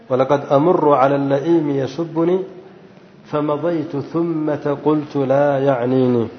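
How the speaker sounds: measured recitation, slowing towards the end; verse recitation. Shown as a demonstration. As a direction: recite the verse, stretching the closing words.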